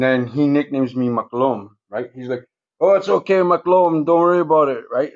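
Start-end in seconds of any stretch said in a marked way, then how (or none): 2.8-4.8 high, carrying call across the cells; retold hollering. Friend in the next cell calls out reassurance, hollering up high. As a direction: call out to him, half amused. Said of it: "he's hollering to me".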